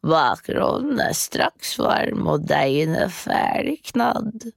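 lightly voiced slow witch; coaxing witch. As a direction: coax her toward the oven.

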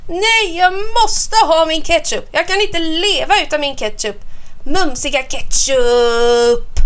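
high wail stretching into a long loud yell; child's screaming tantrum. A narrator's reading. Snurran is refused ketchup by the parents, screaming desperately. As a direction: howl for it with drawn-out words. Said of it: "skriker jag det värsta jag kan".

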